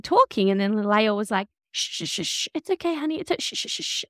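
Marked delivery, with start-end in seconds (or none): 1.7-4.0 breathy shushing whispered to hush someone. Retold or imitated. Lael hushing B in the workshop role play, whispered shushing. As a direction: hush her like a fussed-over baby, whispering. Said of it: "she started shushing her".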